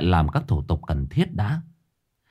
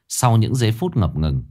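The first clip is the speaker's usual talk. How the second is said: plain reading voice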